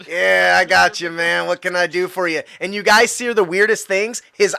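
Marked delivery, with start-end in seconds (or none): 0.1-2.4 stoner voice. Acted. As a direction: ask it like a mellow stoner. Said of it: "I gotta put on my stoner voice".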